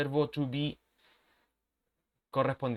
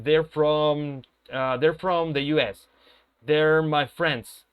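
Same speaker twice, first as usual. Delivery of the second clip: each word drawn out and stressed, louder; careful slow demo; 4 dB louder, much slower than usual. Shown as a demonstration. Teacher modelling for the class, slow and deliberate. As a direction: spell it out slowly for the students. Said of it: "Cuando lo pronunciamos rápido".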